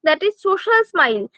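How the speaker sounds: drawn-out, deliberate definition; slow teacherly emphasis; slow dictation. Shown as a demonstration. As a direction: say it slowly for the notebook. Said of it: "teacher defining a term".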